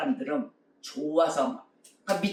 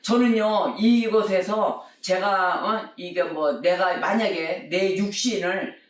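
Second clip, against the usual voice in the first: desperate prayer; 3 dB louder than usual. Retold or imitated. Drowning young man praying in the rapids, pleading. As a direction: beg God for your life. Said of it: "이러고 기도를 하더라는 거예요".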